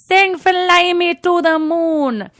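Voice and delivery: put-on loud, high, drawn-out drunken demand; drunk fan. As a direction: holler a song request like a drunk regular. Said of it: "comes in super drunk".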